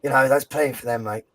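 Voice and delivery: a light Australian accent, lightly put on; a hint of Australian twang on mate. Podcaster quoting the Australian manager, light Australian accent. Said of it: "I'll do the Australian accent".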